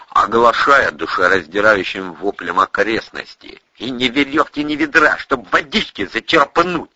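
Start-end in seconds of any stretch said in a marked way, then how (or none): 3.8-6.9 higher-pitched lament; lightly voiced complaint. A narrator's reading. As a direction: grumble over what is missing. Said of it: "сокрушался Планшетов".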